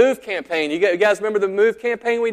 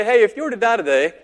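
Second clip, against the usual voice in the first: threatening doorstep pitch; 4 semitones higher, 4 dB louder than usual. Retold or imitated. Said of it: "how threatening does that sound".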